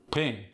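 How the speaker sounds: "pin" with one short I for both pin and pen; pin-pen merger. Shown as a demonstration. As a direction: say "pin" for pen, Appalachian style. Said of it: "short E becomes a short I".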